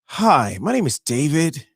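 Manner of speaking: lightly voiced salesman pitch, hardly changed; a hint of a smooth sales rep; David impersonation. Host mimics Amex rep David for listeners, lightly voiced salesman. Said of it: "this is my David impersonation".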